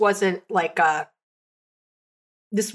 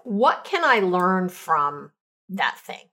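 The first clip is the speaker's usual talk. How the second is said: slow thoughtful question; 2 semitones lower, slower than usual. Shown as a demonstration. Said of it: "here's the questions I ask".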